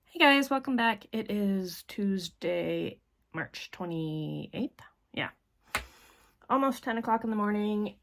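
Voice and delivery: talking around a teeth whitening strip. Real, not acted. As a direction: lips stiff over a whitening strip. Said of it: "Sorry if I'm talking weird".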